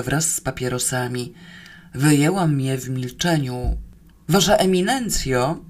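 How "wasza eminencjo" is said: higher, mildly worried call; anxious howl. Acted. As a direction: call down with a touch of worry. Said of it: "zawyło z dziury z niepokojem". (lekko zaniepokojone wołanie)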